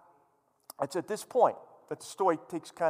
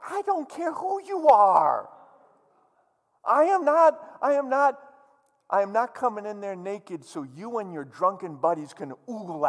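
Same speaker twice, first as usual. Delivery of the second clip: defiant queen. Acted. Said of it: "she says to him".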